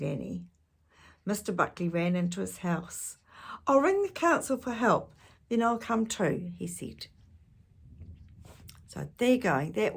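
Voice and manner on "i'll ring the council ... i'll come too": urgent. Acted.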